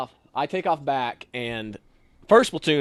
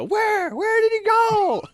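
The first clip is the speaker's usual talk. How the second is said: high, loud, urgent calls; urgent shout; 4 dB louder, slower than usual. Retold or imitated. Drill sergeants running out asking him, high urgent shout. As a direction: demand where he went.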